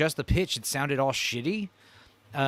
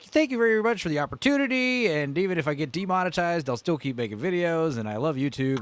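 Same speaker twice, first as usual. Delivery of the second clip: higher, overly sweet suck-up voice; grovelling; 4 semitones higher than usual. Retold or imitated. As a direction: gush thanks like a suck-up. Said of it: "very, like, grovelly and ass-kissy".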